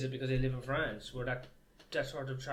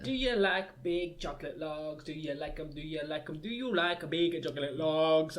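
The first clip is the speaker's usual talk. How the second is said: put-on African accent. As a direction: croon the jingle in mock African accent. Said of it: "I do it in, like, an African voice".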